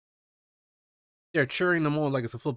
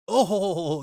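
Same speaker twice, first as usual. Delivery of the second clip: laughing; 6 semitones higher, 5 dB louder than usual. Real, not acted. Laughing at deranged pig look.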